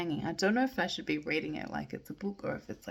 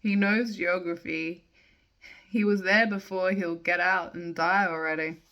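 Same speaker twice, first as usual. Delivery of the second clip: measured poem recital, line by line; casual, unrehearsed poetry reading; slower than usual. Acted. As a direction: read verse aloud with pauses at line breaks. Reads a poem aloud.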